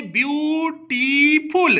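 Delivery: ब्यूटीफुल split slowly into ब्यू-टी-फुल; broken into syllables. Shown as a demonstration. Teacher breaking ब्यूटीफुल into syllables for students, slow and careful. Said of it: "आप इसे तोड़ो".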